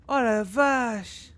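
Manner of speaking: high, loud and drawn out slowly; shocked exclamation. Real, not acted. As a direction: gasp it out after a scare. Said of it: "désolé pour le sursaut". (exclamation choquée, aiguë et lente)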